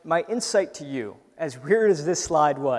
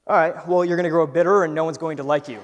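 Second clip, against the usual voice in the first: louder, higher mock doom voice; the inner critic's mock prophecy of doom, raised and loud; gloomy inner voice; 3 semitones higher, 7 dB louder than usual. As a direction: ham up the doubting voice in your head. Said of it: "And the voice says".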